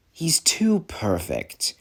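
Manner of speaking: TOO PERFECT drawn out slowly; a slow, deliberate "too perfect"; slow, pointed complaint. Acted. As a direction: draw out "too perfect", keeping it low-key. Grudging complaint about rival engine.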